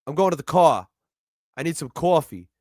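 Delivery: light New York accent, coffee said with a rounded cawfee. Shown as a demonstration. Contrasting New York with Boston, in a New York accent. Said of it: "That's New York".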